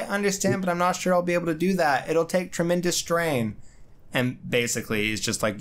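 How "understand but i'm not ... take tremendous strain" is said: high, fast, anxious Sue; a fretful wife unsure she can do it. Retold or imitated. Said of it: "So she's like".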